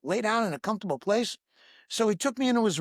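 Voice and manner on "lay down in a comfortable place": startled stop. Retold or imitated. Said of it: "I'm going".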